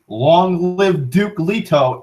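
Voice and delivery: drawn-out imitation of a rallying cry; mild mock battle cry. Retelling Patrick Stewart's charge with the pug, mild mock scream. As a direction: half-shout it slowly, like a movie hero charging. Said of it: "and he screams".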